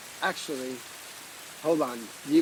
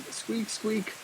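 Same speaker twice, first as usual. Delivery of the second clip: soft bunny squeak; 4 semitones higher, 5 dB quieter than usual. Pretend. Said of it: "in bunny speak".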